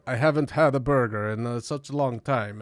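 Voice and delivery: imitated Scandinavian accent; put-on Finnish-leaning Scandinavian accent. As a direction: quote him in a light Scandinavian accent. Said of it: "Is this your Swedish accent?".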